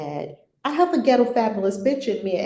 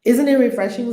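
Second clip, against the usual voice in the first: emphatic question; 3 semitones higher, 8 dB louder than usual. Real, not acted. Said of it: "repeats phrase".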